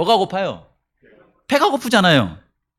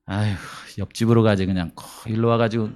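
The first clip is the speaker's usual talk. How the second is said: grumbling dismissal; 8 semitones lower, 4 dB quieter than usual. Pretend. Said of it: "그럴 것 같습니까?".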